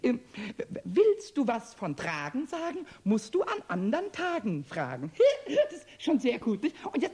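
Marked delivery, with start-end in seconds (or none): 3.0-6.8 delivers the rhyme, then bursts into a pleased laugh; laughing at own rhyme. Acted. Kobold reciting his rhyme to Meister Eder, laughing proudly. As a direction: crack up at your own cleverness.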